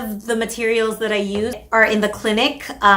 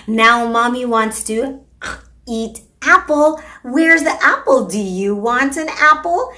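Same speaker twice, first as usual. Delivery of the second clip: coaxing parentese. Shown as a demonstration. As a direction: tempt the toddler toward the apple. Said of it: "So we can say".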